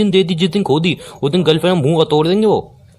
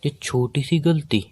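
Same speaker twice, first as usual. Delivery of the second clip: slow, soft, disbelieving repeat; incredulous echo; 6 dB quieter, slower than usual. Acted. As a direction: echo her excuse slowly, in disbelief. Echoes her excuse back in disbelief. (हैरानी से धीरे दोहराना)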